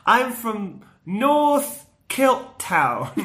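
very slow, laughing bluff; Homer bluffing. Retold or imitated. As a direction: drag out the fake town name. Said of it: "Homer goes".

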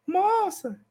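high put-on woman calling out; mock female falsetto call; imitating a woman's voice. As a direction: call out like a lady far off. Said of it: "imita uma voz de mulher".

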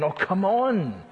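slow, drawn-out scoff; exasperated scoff. Retold or imitated. Wife scoffs at her sulking husband, slowly. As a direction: roll your eyes at him. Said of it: "she's saying".

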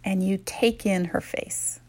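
soft breathy whisper. Acted. Guide describing meeting the future self, whispered. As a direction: drop to a hushed whisper.

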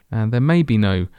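dramatic announcer narration; narrator voice. Acted. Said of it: "I can put my narrator voice on".

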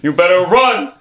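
drawn-out monster taunt; playful ghoul giving chase; menacing creature. Acted. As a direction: taunt your prey, climbing then stretching the words. Creature voice charging at narrator.

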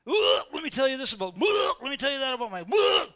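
mock gushing oversharer. Mocking an oversharer unloading troubles.

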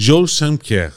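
name said with a French accent; show-off French accent. Shown as a demonstration. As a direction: put on French pronunciation for the name. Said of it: "Το είπα και με προφορά".

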